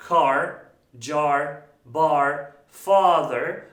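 "car, jar, bar, father" with long held "a"; one word at a time, long "a" in "car, jar, bar, father"; lengthened vowel. Shown as a demonstration. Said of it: "sesi uzatıyorum demektir".

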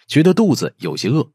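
plain reading voice

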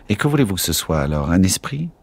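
a touch of irritation, quick; mildly snappish question; irritated. Acted. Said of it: "Fit Drogo irrité".

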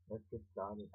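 a weak, barely-there English accent on "let's get started"; attempted English accent. Shown as a demonstration. Kid vlogger quoting Pink Stylist, bad English accent. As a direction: try a British accent and mostly miss. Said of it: "I suck at my English accent".

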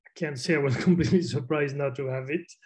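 a small laugh slipped in mid-sentence; wry laugh while reporting; amused chuckle. Real, not acted. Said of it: "I shouldn't laugh".

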